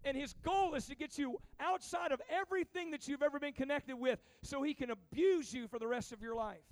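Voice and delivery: rising preacher fervor; preaching. Acted. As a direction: preach it hard to the teens. Preaching about the devil's grip.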